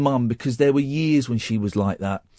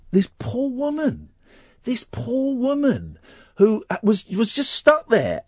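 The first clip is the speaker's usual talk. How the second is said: tearful; 8 semitones higher than usual. Real, not acted. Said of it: "I'm gonna cry now".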